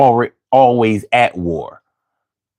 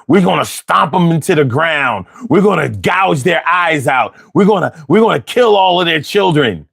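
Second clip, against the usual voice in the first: mock coach war talk; 4 semitones higher than usual. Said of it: "your strategy ... was".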